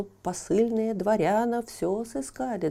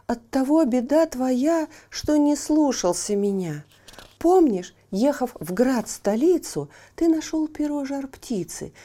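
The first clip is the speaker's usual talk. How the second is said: higher, loud, chiding friend; wise little horse; 3 semitones higher, 5 dB louder than usual. Acted. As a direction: scold kindly, then advise. Horse scolds and advises. (конёк мудро упрекает Ивана)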